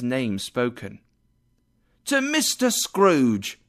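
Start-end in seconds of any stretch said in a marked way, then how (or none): 2.0-3.6 slow toast. Acted. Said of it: "said Bob".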